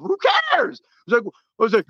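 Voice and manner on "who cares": mock exasperation. Mocking self-sabotaging fans.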